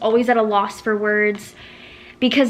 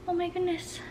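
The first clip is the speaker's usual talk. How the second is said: surprised; 8 semitones higher, 10 dB quieter than usual. Real, not acted.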